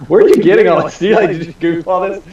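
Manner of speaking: surprised. Real, not acted. Host reveals his record.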